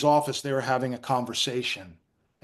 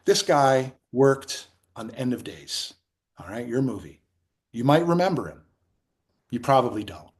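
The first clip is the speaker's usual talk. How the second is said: deliberate, with pauses between phrases; smooth; 2 semitones lower than usual. Retold or imitated. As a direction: act out a smooth boss presenting his employee. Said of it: "Army was really smooth".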